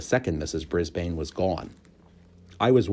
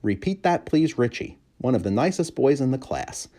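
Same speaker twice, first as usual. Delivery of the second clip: hamster voice; 7 semitones higher than usual. A narrator's reading. Humphrey's voice.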